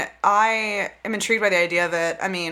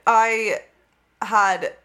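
British accent; 2 semitones higher than usual. Real, not acted. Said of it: "with a British accent".

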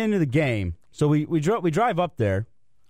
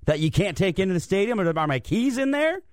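retold panic; 3 semitones higher than usual. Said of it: "So now I'm freaking out".

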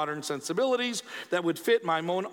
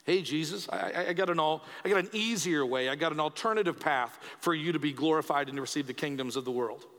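tempting devil; 4 semitones lower than usual. Acted. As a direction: make a casual, coaxing offer as the tempter. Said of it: "Not the devil".

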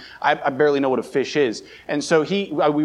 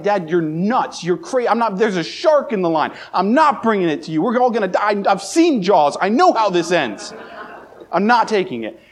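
pitched-up frightened protest, mock panic; a scared kid refusing, voice raised high; retold kid freaking out; 6 semitones higher, 3 dB louder than usual. Boy refusing to hand dad the bitten line, high mock terror. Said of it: "And I'm freaking out".

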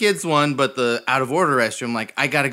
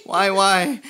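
desperate wailing; 5 semitones higher, much slower than usual. Retold or imitated. Retold desperate wailing at door.

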